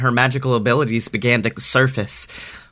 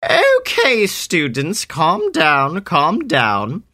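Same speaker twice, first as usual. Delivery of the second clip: high teacher voice; 4 semitones higher, much slower than usual. Acted. Professor Kitty Cat calming students.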